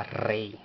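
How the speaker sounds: rey with a rolled R; pronunciation demo. Shown as a demonstration. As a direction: say "rey" with a trilled R, ending in an EY glide. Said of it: "para mantener el sonido que da la palabra".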